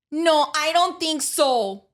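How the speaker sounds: put-on slow, high Kendall girl drawl; Kendall accent. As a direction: imitate the cousin's lazy Kendall tone. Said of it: "she's very like".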